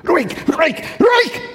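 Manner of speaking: laut und hoch gerufen, beschwichtigend; ruhig rufen. Shown as a demonstration. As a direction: ruf es hinaus wie zu einem aufgewühlten Sturm. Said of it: "Dann werde ich wieder lauter". (laut und hoch: ruhig, ruhig, ruhig!)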